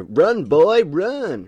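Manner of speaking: loud, high redneck holler. Retold or imitated. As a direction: call out like a hammed-up redneck. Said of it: "like, a real, like, redneck".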